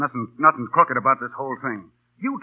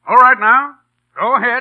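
loud command; 8 semitones higher, 9 dB louder than usual. Acted. Boss starts the rehearsal.

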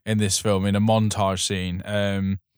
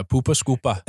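Geordie accent. Shown as a demonstration. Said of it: "if you're a Geordie".

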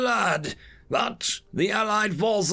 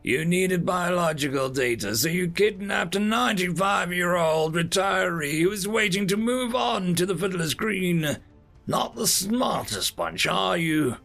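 put-on higher-pitched, scornful old man; derisive; 6 semitones higher than usual. Ninety-five-year-old abductee scoffing at alien captor, derisive. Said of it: "Jimmy snorted in derision".

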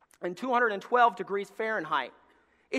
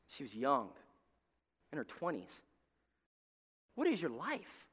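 softer, intimate question; hushed question; 7 semitones lower, 12 dB quieter than usual. Real, not acted. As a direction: draw them in gently. Hushed after the sad story.

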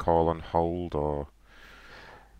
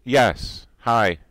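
put-on caller voice; 9 semitones higher, 5 dB louder than usual.

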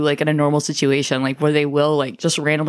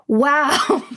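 mock awed boy; 8 semitones higher than usual. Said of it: "he said".

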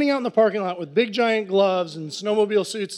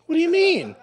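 put-on much higher, dopey drunk question; baffled and plastered; drunk confusion; 9 semitones higher than usual. Drunk narrator asks Brad what he means, dopey drunk voice. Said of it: "I'm all drunk".

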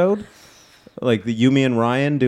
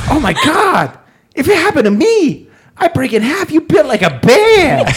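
put-on high-pitched Korean accent; Korean accent impression; 5 dB louder than usual. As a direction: imitate the little Korean doctor with a Korean accent. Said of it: "I've never done that impression".

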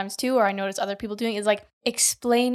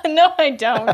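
laughing protest; 4 semitones higher, 7 dB louder than usual. Real, not acted. Laughing denial.

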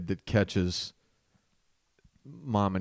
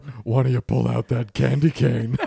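sultry voice; 6 dB louder than usual. Retold or imitated.

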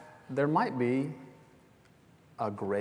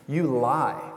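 raised, punchy accusation, short of a scream; toned-down yell; 3 semitones higher, 7 dB louder than usual. Acted. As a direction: call it out loudly as a mock outburst. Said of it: "probably even louder than that".

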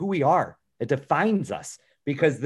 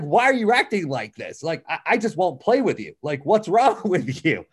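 annoyed dad; 3 semitones higher than usual. Retold or imitated. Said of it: "I was upset with her".

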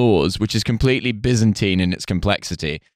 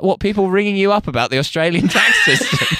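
incredulous; 10 semitones higher than usual. Retold or imitated. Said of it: "And I'm like".

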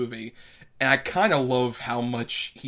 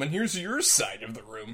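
sitcom line; 5 dB quieter than usual. Retold or imitated. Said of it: "the sitcom thing of".

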